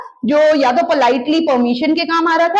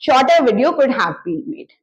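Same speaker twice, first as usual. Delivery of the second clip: slow, each word apart; slow repeat; 2 semitones lower, much slower than usual. Shown as a demonstration. Teacher repeating the passive sentence slowly. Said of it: "जो भी बनाता".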